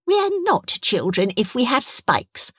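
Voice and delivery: put-on high, slow childlike correction; child creature. Young creature corrects her sibling.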